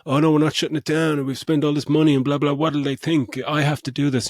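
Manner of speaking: hammed-up politician refusing to budge; mocking the mayor. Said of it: "you're just like".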